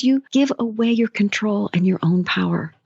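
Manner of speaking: whispered, intense and hushed. Real, not acted. Coach whispering to listeners about giving away power. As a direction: lean in and whisper the warning.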